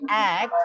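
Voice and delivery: "act" given full stress; teacher's demonstration, "act" said with clear stress; stressed syllable. Shown as a demonstration. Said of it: "I stressed on the first syllable".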